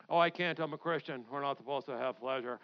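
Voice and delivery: lightly voiced low, reluctant churchgoer; mock pious objector.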